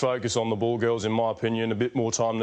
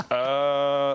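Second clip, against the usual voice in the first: certain Murray uh. Retold or imitated. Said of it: "more sort of like".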